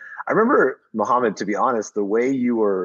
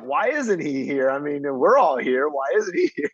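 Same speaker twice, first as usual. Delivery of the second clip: mock indignation; 5 semitones higher than usual. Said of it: "I'm like".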